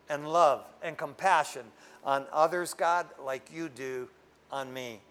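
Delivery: earnest prayer. Acted. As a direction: pray it low and humble, pleading. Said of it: "You ever pray that way?".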